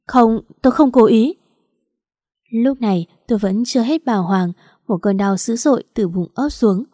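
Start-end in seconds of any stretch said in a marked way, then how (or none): 0.1-1.3 startled, blurting out an apology; panicked denial. A narrator's reading. Hiển panics after knocking her down the stairs, frightened. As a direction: gasp it out in sudden panic. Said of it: "hoảng hốt nói".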